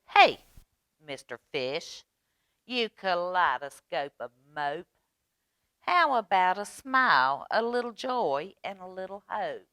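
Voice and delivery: loud "hey", then a lightly voiced coaxing plea; cheeky squid nagging a moper; impolite squid.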